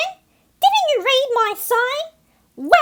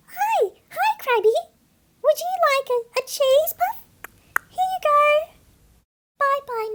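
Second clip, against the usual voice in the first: fake sweetness; 6 semitones higher than usual. Seagull sweet-talks the crab.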